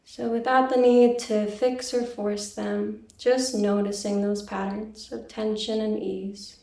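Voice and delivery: calm, even meditation guiding with long pauses; guided meditation. Real, not acted. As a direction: gently lead listeners inward, leaving silence between phrases. Leads a meditation.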